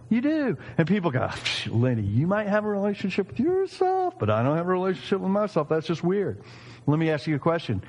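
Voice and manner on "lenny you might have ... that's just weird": higher-pitched dismissive objector; mock skepticism. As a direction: push back as an incredulous doubter. Acting out skeptical people's objection.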